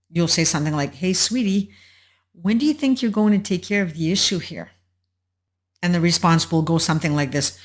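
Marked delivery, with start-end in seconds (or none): 0.9-4.7 careful asking. Acted. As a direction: tread gently, as if asking a touchy partner. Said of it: "very carefully at that".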